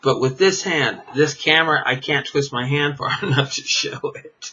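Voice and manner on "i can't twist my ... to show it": laughing. Real, not acted. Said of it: "I'm laughing because".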